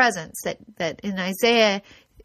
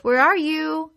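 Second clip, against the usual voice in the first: high, loud cry to God; drowning man calling out to God; desperate call out; 7 semitones higher, 5 dB louder, much slower than usual. Acted. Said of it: "he's saying".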